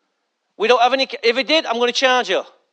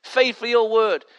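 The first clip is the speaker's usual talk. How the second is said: mock pious worshipper; 4 dB quieter than usual. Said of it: "all the worshippers like to come in and say".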